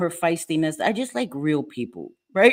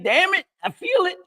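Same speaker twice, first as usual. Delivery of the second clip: excited agreement; 13 semitones higher than usual. Retold or imitated. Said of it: "I'm like".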